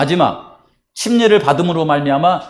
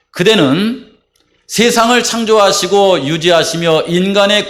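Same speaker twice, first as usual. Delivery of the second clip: formal vow; 2 semitones higher, slower than usual. Real, not acted. Reads baptismal vow formally.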